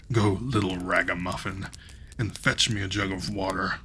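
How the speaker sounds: lightly voiced giant giving orders. Giant orders the ragamuffin to fetch water, a lightly voiced giant. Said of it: "the giant said to him".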